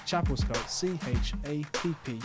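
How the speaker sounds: measured, scripted presenter delivery; podcast intro read. Acted. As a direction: introduce the episode like a radio host. Host reads podcast intro.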